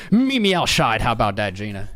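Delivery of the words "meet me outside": mock threat. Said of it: "You don't want him to run into".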